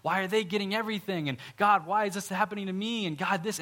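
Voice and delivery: complaining believer pleading with God; whiny complaint to God. Retold or imitated. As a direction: whine at God like a wronged servant. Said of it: "So then you're like".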